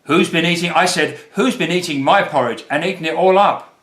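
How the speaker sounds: lightly voiced upset Baby Bear; Baby Bear crying out. A narrator's reading. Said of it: "cried Baby Bear".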